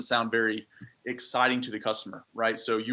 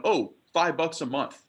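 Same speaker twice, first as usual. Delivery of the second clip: higher, slow, offhand customer guess; higher, slow offhand customer reply; 4 semitones higher than usual. Retold or imitated. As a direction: shrug it off like a lowball customer. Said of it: "what a lot of people say".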